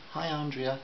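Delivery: friendly. A narrator's reading. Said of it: "she said in a friendly manner".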